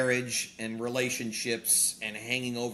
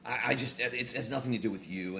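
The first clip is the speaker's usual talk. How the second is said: sheepish apology; 5 dB quieter than usual. Retold or imitated. Husband caught being a jerk apologizes, softly sheepish. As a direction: back down meekly, almost under your breath.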